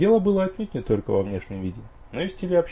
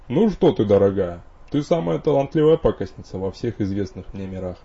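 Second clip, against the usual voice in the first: soothing; 5 dB louder than usual. Acted. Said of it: "поспешил успокоить супругу Элиас".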